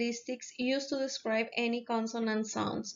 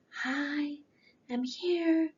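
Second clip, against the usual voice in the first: paralysed vocal cord voice; 4 semitones higher, much slower than usual. Retold or imitated. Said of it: "his voice sounds, uh, like".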